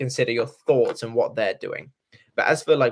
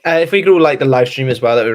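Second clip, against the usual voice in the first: laughing; 3 semitones higher, 10 dB louder, faster than usual. Real, not acted. Laughing while asking for likes.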